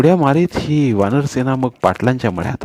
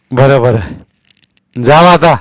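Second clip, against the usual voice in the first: put-on much higher, much louder, slow old man's call; old Patil's voice; 3 semitones higher, 8 dB louder, much slower than usual. A narrator's reading. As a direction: boom down at the little boy from the well. Patil dismisses them.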